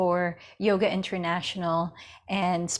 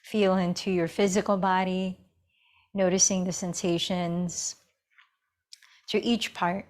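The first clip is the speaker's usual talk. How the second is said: unhurried meditation guidance with long pauses; guided meditation. Acted. Yoga teacher settling students into breath and awareness, guided meditation. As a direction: guide them inward, leaving space between phrases.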